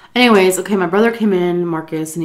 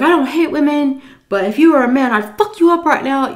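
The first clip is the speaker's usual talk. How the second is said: retold angry threat; 8 semitones higher, 5 dB louder, faster than usual. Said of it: "he was going off on her".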